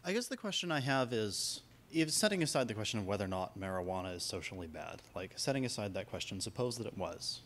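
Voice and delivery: soft, low-voiced question; too quiet. Real, not acted. Audience member puts a hypothetical to the panel, too quiet. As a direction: ask it softly, barely carrying across the room. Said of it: "Could you raise your voice just a little bit".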